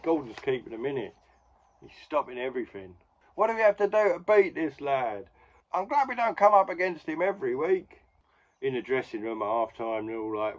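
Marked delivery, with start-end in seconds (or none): 3.3-8.0 higher, louder exasperated cry; frustrated opponent. Retold or imitated. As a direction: throw up your hands in disbelief.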